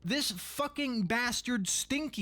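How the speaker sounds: slow, drawn-out New York tough-guy voice; mock New York accent. A gamer hams up New York accent at the Archvile. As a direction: lean into a thick northeastern accent, slowly.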